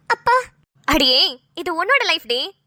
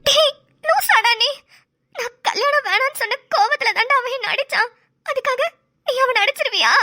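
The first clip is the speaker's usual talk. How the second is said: tearful, reproachful outburst at him; crying scolding; 5 semitones higher than usual. Acted. Wife scolds husband through tears for hitting her brother.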